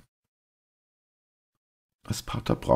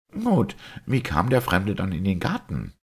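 high-pitched, confident doctor; challenging doctor; 6 semitones higher than usual. Acted. Doctor promising the priest two baffling questions, challenging. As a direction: pitch it high, ready to confound them.

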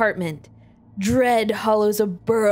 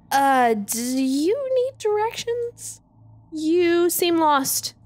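nervous tremor; 3 semitones higher, slower than usual. Acted. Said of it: "I can't keep the tremor out of my voice".

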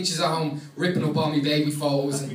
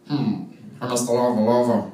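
slow, lower goofy Shaggy voice; Shaggy impression; 6 semitones lower, slower than usual. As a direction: drawl it out as a dopey Shaggy. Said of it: "it comes out like".

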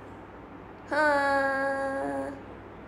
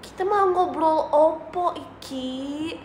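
mock Javanese accent. Shown as a demonstration. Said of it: "Logat medok".

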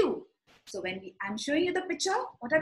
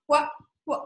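normal talking voice

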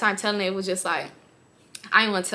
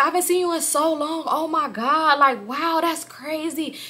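higher mock gushing man; lightly voiced eager guy, higher; imitating him; 5 semitones higher than usual. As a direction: mimic his fake excitement. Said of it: "he's like".

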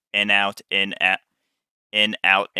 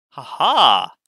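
laughing; 5 semitones higher, 7 dB louder than usual. Real, not acted. Laughs after threading needle.

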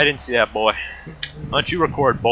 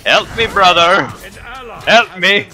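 drawn-out, high shout for help; hammed-up plea; 4 semitones higher than usual. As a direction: call theatrically for rescue. Playfully cries for help in game.

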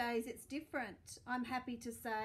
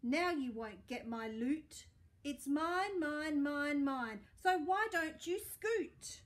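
louder, rising "mine, mine, mine", last line slow; gloating shout; 4 dB louder than usual. Acted. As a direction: crow over the loot like a spoiled pug. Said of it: "shouted Pig".

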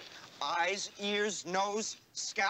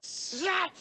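shout; 11 semitones higher than usual. Acted. Harold's mock outburst.

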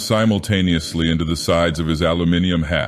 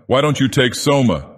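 derisive; 5 semitones higher than usual. Acted. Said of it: "the tone was menacingly derisive".

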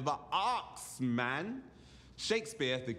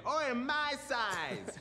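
a light imitation of a kid, drawn out slowly and pitched higher; street slang call; 10 semitones higher, much slower than usual. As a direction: lazily mimic the film's street kids. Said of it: "with everybody going".

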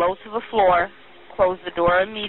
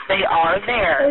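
slow, deliberate and calming; slow reassurance; 3 semitones higher, much slower than usual. Real, not acted. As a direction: spell it out slowly to soothe her. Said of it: "I promise they are right there".

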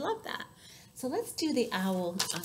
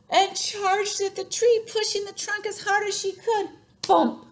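charging, full effort; 11 semitones higher, 8 dB louder than usual. A narrator's reading. Storyteller as elephant charges the tree, loud and straining. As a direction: heave each word out, then punch "Bump!".

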